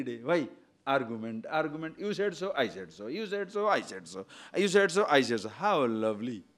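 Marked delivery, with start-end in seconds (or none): 2.0-5.5 mock quarrel. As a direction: act out two people bickering back and forth. Acted quarrel, two voices.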